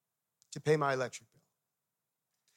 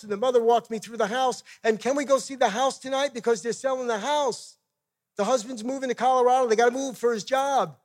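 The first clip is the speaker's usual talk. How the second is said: higher, louder, eager gush; imitated excited wife; 4 semitones higher, 6 dB louder than usual. Wife telling husband about a house for sale, imitated excitement. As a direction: pour it out as an excited wife would.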